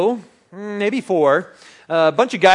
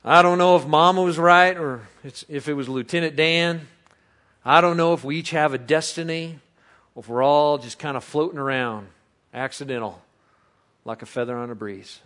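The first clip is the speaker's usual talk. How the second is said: Forrest quote, fading; 3 semitones lower than usual. Retold or imitated. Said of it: "He says".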